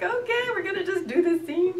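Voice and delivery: high, whiny, almost crying put-on voice; mock whimpering resolve. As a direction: squeak it out as if bravely enduring. Acting out reluctant kiss of sweaty actor.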